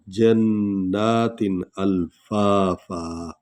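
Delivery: very slow, the doubled noon of जन्नातिन held and stressed; tajweed demo. Shown as a demonstration. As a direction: draw out जन्नातिन with the noon sounded twice. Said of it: "शद वाला हर्फ कितने बार पढ़ा जाता है". (धीमी तिलावत, जन्नातिन में शद पर ज़ोर)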